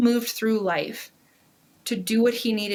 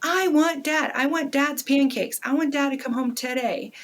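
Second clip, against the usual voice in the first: mock crying child; 5 semitones higher than usual. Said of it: "Crying and screaming".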